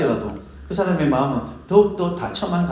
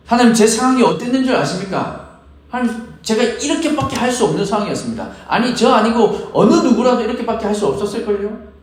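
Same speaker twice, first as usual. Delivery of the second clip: 변명하듯; 5 semitones higher than usual. Retold or imitated. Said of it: "라는 말이 필요 없다는".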